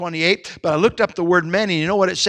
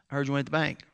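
soft Kentucky drawl impression; Brother Morgan; 3 semitones lower, 8 dB quieter, much faster than usual. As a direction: imitate a deep, quiet Kentucky mumble. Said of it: "a deep Kentucky drawl".

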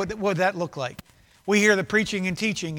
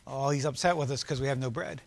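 mock clueless disciples; 8 semitones lower, 8 dB quieter than usual. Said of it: "they're like".

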